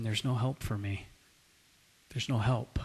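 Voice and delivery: soft, low, defeated near-whisper; retold whisper. Preacher retelling a broken man's despair, hushed near-whisper. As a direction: drop to a hushed, hopeless murmur. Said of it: "he just started whispering".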